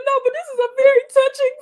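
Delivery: high, laughing fake-formal praise; mock-solemn, laughing through it; mock earnest. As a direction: pretend to be composed and refined. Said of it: "And I said".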